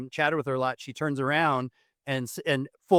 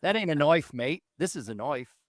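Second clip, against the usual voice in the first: mock Australian movie-line accent. Shown as a demonstration. Host performing on request, in a put-on Australian accent. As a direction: quote it in a hammy Australian accent. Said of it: "give me your Australian accent".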